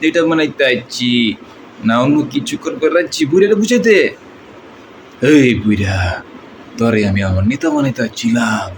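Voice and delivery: Dipjol-style villain dialogue; threatening film gangster; movie villain. Retold or imitated. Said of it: "এটা ছিল আমাদের ডিপজল ভাই dialogue".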